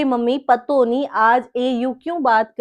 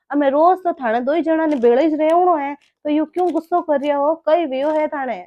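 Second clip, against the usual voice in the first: louder, earnest plea; pleading appeal; 4 dB louder than usual. Acted. Mother-in-law pleads with her angry son-in-law, earnest and loud. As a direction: beg him to calm down.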